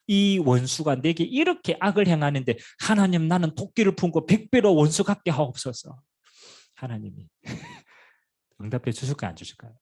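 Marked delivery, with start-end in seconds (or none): 0.1-6.0 louder, higher hammed-up prayer for revenge; mock vengeful prayer. 설교자가 보복을 비는 신자를 흉내 내는 과장된 기도. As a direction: pray for revenge like a grudging believer.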